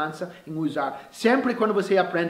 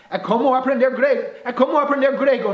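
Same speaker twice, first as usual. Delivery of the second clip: higher-pitched, emphatic exclamation; mild exclamation; 7 semitones higher, 4 dB louder than usual. Acted. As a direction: exclaim it as a well-worn saying. Mock exclamation about learning Greek. (exclamação enfática, em tom agudo)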